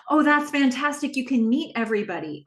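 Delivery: imitating an excited reply. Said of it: "She is excited".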